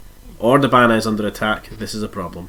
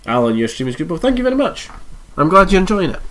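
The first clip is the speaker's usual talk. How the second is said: congested nasal voice; talking through a blocked nose; 8 semitones higher, 5 dB louder than usual. Real, not acted. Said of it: "my nasally congested voice".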